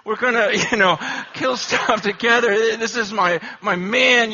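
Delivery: a father's grinning pride; hunting-buddy glee; proud dad excitement. Retold or imitated. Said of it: "I'm just thinking".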